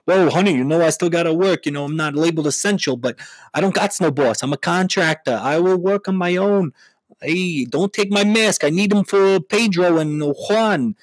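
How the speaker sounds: Long Island husband. Acted. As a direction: whine about needing the masks. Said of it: "husband answers Gina".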